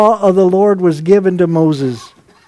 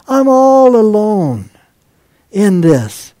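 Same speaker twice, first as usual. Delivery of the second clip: lonely lament; slower than usual. Acted. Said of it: "So he said".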